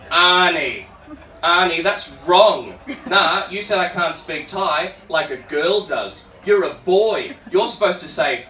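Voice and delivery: slow, emphatic correction; imitated reproachful lecture; retold scolding. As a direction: act out a friend telling him off, word by word. Voices friend scolding his Thai.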